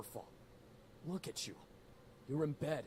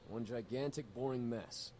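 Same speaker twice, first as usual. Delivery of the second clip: louder, pressing each word of one gigantic, boring mess; emphatic, annoyed; 4 dB louder than usual. Acted. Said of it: "Like I said".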